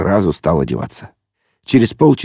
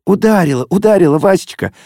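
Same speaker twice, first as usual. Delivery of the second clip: joyful whisper; 11 semitones higher than usual. Acted. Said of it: "радостно зашептала Зося".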